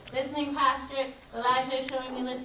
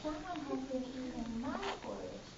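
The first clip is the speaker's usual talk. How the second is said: wee little voice; 10 dB quieter than usual. Shown as a demonstration. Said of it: "In your wee little voice".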